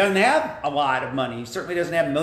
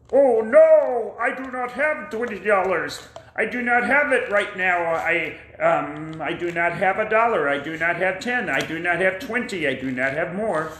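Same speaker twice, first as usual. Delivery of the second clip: pleading friend; 4 semitones higher than usual. Acted. Friend pleads he has no money.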